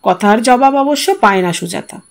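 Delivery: usual speaking voice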